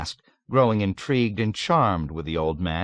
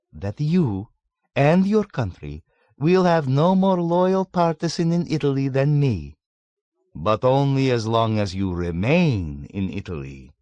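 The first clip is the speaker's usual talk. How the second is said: put-on raised, louder worldly old man holding forth; sly old man lecturing; 6 semitones higher, 4 dB louder than usual. A narrator's reading. Old man lectures young American, sly and amused. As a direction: relish every paradox. Old man's mock loyalty.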